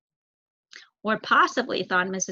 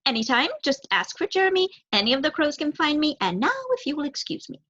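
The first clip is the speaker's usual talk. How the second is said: put-on lightly higher young crow; 6 semitones higher than usual. Crow offering help to the mouse, lightly higher.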